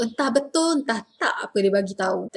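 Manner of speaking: doubtful, quick everyday tune; natural Malay intonation. Shown as a demonstration. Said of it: "That's normally our intonation".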